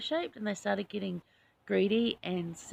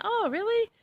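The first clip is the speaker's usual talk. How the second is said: high, louder gasp of delight; retold delighted surprise; 13 semitones higher, 6 dB louder than usual. To the honey seller offering a gift, high delighted surprise. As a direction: squeal it up high, thrilled.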